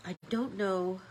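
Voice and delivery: talking through a stuffy nose. Real, not acted. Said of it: "I'm so stuffy".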